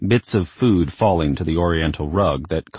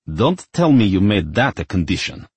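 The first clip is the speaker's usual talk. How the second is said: snapping; 3 semitones higher, 4 dB louder than usual. Acted. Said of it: "her grandfather snapped".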